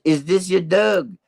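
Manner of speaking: high, slow put-on inspector voice; Inspector Clouseau. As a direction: ask it slowly, imitating the film detective. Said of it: "Inspector Clouseau here".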